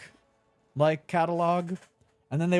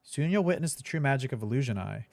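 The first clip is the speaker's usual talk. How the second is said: mock ad read. Reads the box blurb aloud.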